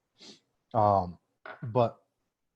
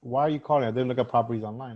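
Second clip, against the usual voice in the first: confused; 6 dB louder than usual. Retold or imitated. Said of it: "she was a little confused".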